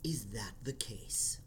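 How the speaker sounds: whispering. Acted. Menacing reply to the intruder.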